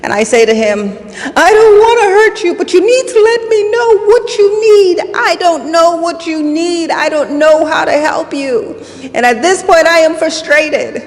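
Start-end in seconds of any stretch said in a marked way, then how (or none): 1.4-8.7 high, raised voice in a heated argument; reenacted shouting. Mother shouting back at her son, reenacted high shout. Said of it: "we're shouting at each other". 9.1-11.0 raised, high-pitched exasperation, reenacted; frustrated. Mother at breaking point with her son, frustrated. Reliving the shouting match with son.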